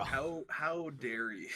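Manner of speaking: mock outrage. Mock offense at friend.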